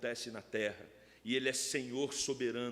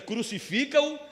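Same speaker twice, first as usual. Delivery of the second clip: high, loud mock crowd cry; retold crowd shout; 11 semitones higher, 10 dB louder than usual. Pastor quoting the crowd that condemned Jesus, retold shout. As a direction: raise it sharply, imitating the shouting crowd. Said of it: "A multidão que grita".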